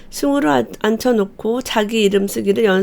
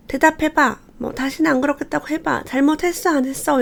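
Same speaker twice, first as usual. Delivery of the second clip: higher, demanding mock interrogation; pressing scolding; 5 semitones higher than usual. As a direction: push the child to confess. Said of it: "이렇게 다그치시는 분들이 많아요". (아이를 다그치는 부모, 높게)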